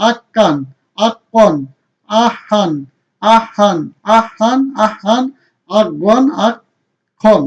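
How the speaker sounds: each syllable like আক্কান chanted with a doubled consonant and a final -an; Arabic tanween drill. Shown as a demonstration. Teacher drilling students on the double fatha, chanting each syllable. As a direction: drill আক্কান, আহান one by one, stressing the doubled sound. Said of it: "দুই জবর দিয়ে কি করলাম? Practice".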